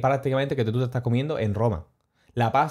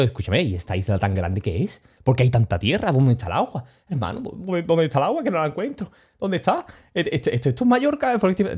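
confused friend. Retold or imitated. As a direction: play the lost buddy who can't find the sea, climbing up to a squeak on Mallorca. Confused mate asking for water.

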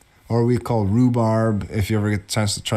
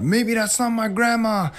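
retold child's scared thought, pitched much higher; a little girl spooked by a scream; frightened child thought; 11 semitones higher than usual. Grandma as a girl, frightened by the screaming plant.

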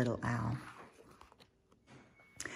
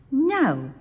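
high defiant little owl; squeaky kid refusing; child voice; 11 semitones higher, 7 dB louder than usual. Acted. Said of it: "said Little Al".

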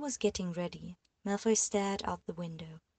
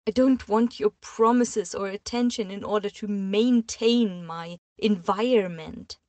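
mild sob; 2 semitones higher, 10 dB louder than usual. A narrator's reading. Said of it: "she sobbed faintly under her breath".

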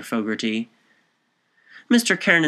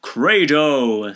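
loud proclamation, pitched under a shout; deep raucous voice; 3 semitones higher, 6 dB louder than usual. A narrator's reading. Cunningham repeats the word to hushed friends, deep raucous voice. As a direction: intone the word of belief with force. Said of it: "His deep, raucous voice had thrilled them".

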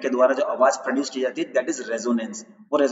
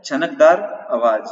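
छनकदार आवाज said slowly and louder, stress on छनकदार; slow emphatic answer; 3 dB louder, slower than usual. Shown as a demonstration. Teacher answers his own quiz question, slow emphatic. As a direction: hammer home छनकदार like a drill. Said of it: "क्या होता है?".

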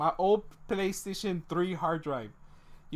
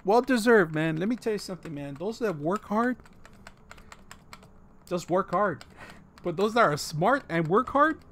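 mock Jamaican accent.

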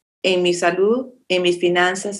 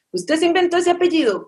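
quizzical Guatemalan brother; 8 semitones higher than usual. Retold or imitated. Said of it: "Un hermano ... de Guatemala".

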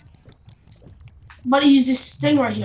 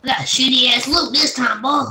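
whisper. Pretend. Whispered repeat of taunt.

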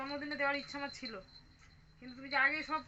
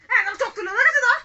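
playful excited voice; 9 semitones higher, 19 dB louder than usual. Pretend. Toy tiger game with toddler.

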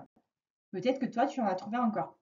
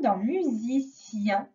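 1 slow examples; slower than usual. Shown as a demonstration. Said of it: "j'entends yen comme".

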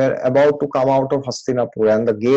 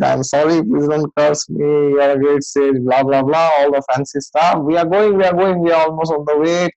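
frightened pleading; 2 semitones higher, 3 dB louder than usual. Retold or imitated. Duryodhana begging Vyasdev not to curse him, mock panicked pleading.

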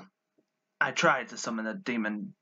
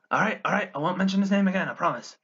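defensive placating; 5 semitones higher, faster than usual. Acted. Placating annoyed brother.

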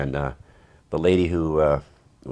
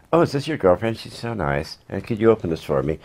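flirty actress; 5 semitones higher than usual.

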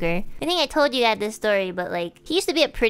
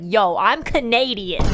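mock tough; 5 dB louder, slower than usual. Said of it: "I got really mad".

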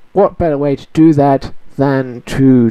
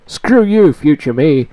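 high sharp scolding; mock scold; 3 semitones higher than usual. Real, not acted. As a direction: snap at your future self. Mock scolding of future self.

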